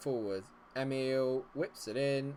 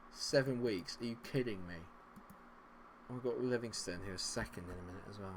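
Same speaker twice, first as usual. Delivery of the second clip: ordinary talk, nothing marked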